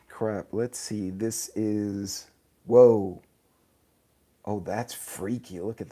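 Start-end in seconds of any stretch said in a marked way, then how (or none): 2.7-3.2 sudden loud whoa of surprise; surprised at his own image on the new filter; startled whoa. Real, not acted. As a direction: blurt it out, caught off guard. Sees camera filter suddenly.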